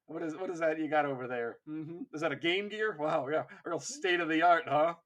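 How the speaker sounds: teasing, fake-impressed taunt; mock insult. Ashen Claws belittling the Carcharodons' gear, mocking. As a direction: sneer at their gear as if impressed. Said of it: "just straight up insult them".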